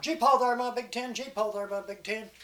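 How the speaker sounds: high call, easing off in volume; storyteller's moderate holler to the team. Acted. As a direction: call out to the horses.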